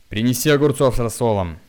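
loud, commanding threat; menacing order. A narrator's reading. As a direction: order her about menacingly. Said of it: "грозно приказал ей". (грозный приказ)

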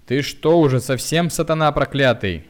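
loud, high outraged yell; losing her temper. A narrator's reading. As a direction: snap at him, beside herself. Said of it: "вышла из себя тётя Любава". (в ярости, на крике)

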